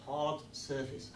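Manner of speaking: slow, weight on hard; stressed hard. Shown as a demonstration. Host to kids, stressing hard. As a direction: lean on the word Hard. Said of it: "find a hard surface".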